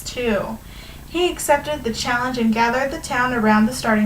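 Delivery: animated storybook reading to a class; measured read-aloud with stretched key words; story read-aloud. A narrator's reading. Teacher reading a fable to students, lively storytelling.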